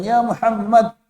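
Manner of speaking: loud, high blunt call; rough Bedouin call. Acted. Bedouin rudely calling the Prophet, loud and blunt. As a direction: shout his name without courtesy. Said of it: "karena dia adalah orang Badui".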